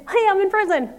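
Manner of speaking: high, loud mock outburst; mock level-ten rage. Showing the top of the anger scale with a loud mock outburst. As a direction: blurt it like you've lost it. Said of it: "and ten is".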